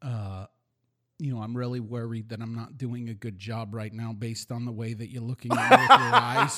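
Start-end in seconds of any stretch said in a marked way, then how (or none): 1.4-6.6 put-on New York accent. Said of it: "a New York Jew accent".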